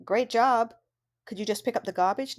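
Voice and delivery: light, friendly praise, then a casual ask; encouraging praise. Shown as a demonstration. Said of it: "first way".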